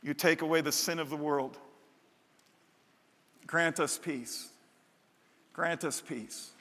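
hushed liturgical prayer. Acted. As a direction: pray it gently over the people. Prayer at start of service.

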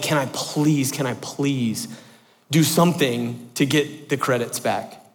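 soft, halting plea to a professor; pleading. Retold or imitated. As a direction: beg gently, leaning on "please". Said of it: "I plead my case to her".

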